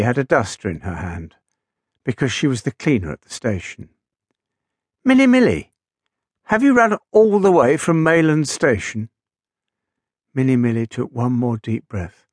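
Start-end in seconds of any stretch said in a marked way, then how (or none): 5.0-9.1 high, bright little engine greeting. Acted. Small engine greeting his big friend, voiced high and light. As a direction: pitch way up as the tiny engine. Little Titch asks the cleaner.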